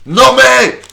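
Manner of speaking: loud high "non mais"; exasperated shout. Real, not acted. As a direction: blurt it out, fed up. Outburst at the mayor's plan.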